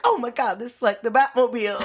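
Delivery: mock excitement. Retelling his delight at the car, in mock excitement. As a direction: imitate a thrilled first-time driver. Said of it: "he's like".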